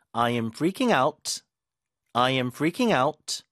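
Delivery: I am freaking out, freaking and out punched, very slow; stress on freaking and out. Shown as a demonstration. Teacher drills where the stress falls. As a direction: hit freaking out slowly. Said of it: "강세 주고".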